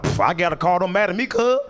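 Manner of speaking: mock tough-guy bravado; unconvincing show of not caring; acting tough. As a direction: brush it off, pitch climbing at the end. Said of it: "I'm trying to be tough".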